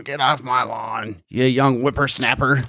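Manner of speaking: put-on slow, cranky old man yelling; shouting at trespasser. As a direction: shake a cane at the kids. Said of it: "yell at people with our canes and point at them going".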